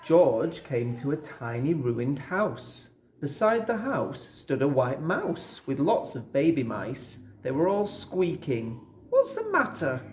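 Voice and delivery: ordinary delivery, nothing marked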